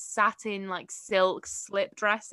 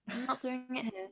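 hint of American; 13 dB quieter than usual. Shown as a demonstration. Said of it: "I can do an American accent".

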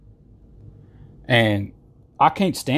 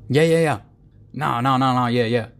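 mock waffling; 2 semitones higher than usual. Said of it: "mock waffling".

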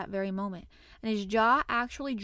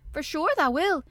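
loud, higher, hearty assurance; stout assurance; 7 semitones higher, 6 dB louder than usual. A narrator's reading. Dickon assuring Colin he will walk, stoutly. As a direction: say it stoutly, voice lifted. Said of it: "he said stoutly".

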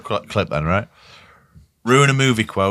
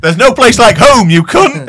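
much higher, slow squeaky voice; hammed-up high Dorothy; mock Dorothy line; 12 semitones higher, 7 dB louder, slower than usual. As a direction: pipe it up like a little girl. Wizard of Oz quote, high.

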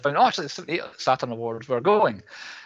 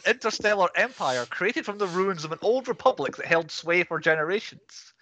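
grand booming space narration; 2 semitones higher than usual. Pretend. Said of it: "He's reading the scroll at the start".

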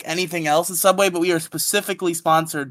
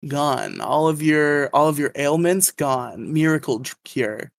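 snake oil seller. Pretend. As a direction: sell the miracle tuna sub like a huckster. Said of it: "that word from our sponsor".

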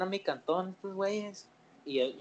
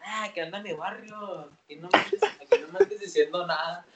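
cholo talk; 5 dB louder than usual. Retold or imitated. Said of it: "caminando como cholo".

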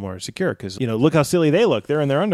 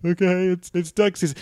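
giving in; 7 semitones higher than usual. Acted. Bullied victim gives in.

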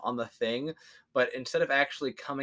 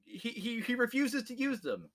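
much higher, soft squeak; mock high voice; 10 semitones higher, 6 dB quieter than usual. Defenders explaining Gandhi, high squeaky voice.

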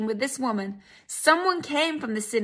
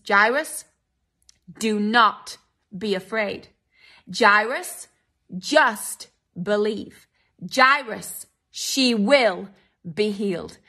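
voice of Jesus; 4 semitones lower, slower than usual. Retold or imitated. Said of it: "eyeballs Jairus, and says".

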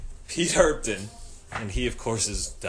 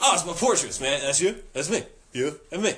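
quick, staccato bursts, slightly raised pitch; staccato roommate; 3 semitones higher than usual. Retold or imitated. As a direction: imitate an eager friend in short rapid bits. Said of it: "that's how he talked, too. Like, real staccato, real quick".

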